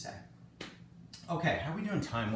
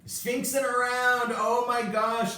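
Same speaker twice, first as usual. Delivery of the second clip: higher, louder and slower, groaning at the pun; amused groan at own pun; 12 semitones higher, 8 dB louder, slower than usual. Real, not acted. Teacher groaning at her own Sphinx pun, amused and drawn out. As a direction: drag it out, tickled by your own joke.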